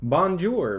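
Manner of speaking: "Bonjour" in a plain English accent; unaccented English-style French; bad French, no accent. Shown as a demonstration. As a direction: read French with an Anglophone accent. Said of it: "it sounds like shit".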